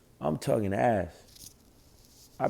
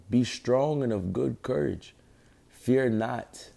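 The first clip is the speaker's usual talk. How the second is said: slow, measured Bible reading; scripture reading. Acted. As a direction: read the verse out deliberately, phrase by phrase. Reads scripture aloud.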